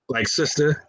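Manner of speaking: "sister?" asked with a rising, unsure lift; puzzled and caught off guard, saying "sister?"; flustered questioning. Pretend. Brother caught off guard by the sister, asking "sister?". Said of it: "I don't even know what to say".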